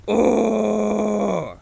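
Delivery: forced high grinding grunt; false fold growl. Shown as a demonstration. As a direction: push the grind harder. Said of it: "force that a little bit more".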